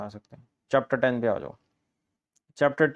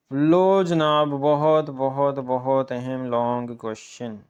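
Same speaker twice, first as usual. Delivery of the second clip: emphatic announcement; slower than usual. Real, not acted. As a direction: build it up like a big reveal, then slow down. Teacher announcing top question.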